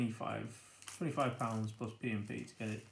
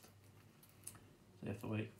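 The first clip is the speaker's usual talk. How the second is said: teasing whisper; 3 semitones lower, 10 dB quieter, much slower than usual. Real, not acted. Teasing viewers about models.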